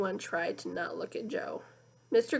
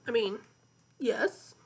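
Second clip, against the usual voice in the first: hoarse sick donkey voice; donkey with tonsillitis; slower than usual. Acted. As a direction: croak like an ill donkey. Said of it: "he sounded like a donkey with tonsillitis".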